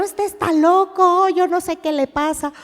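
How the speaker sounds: imitated exasperated disciple; acted disbelief. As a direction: exclaim like a baffled onlooker. Acts another disciple's disbelief.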